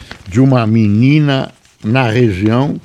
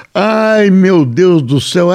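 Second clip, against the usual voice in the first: high, laughing disbelief; 8 semitones higher, 3 dB louder than usual. Real, not acted. Laughs at unexpected joke.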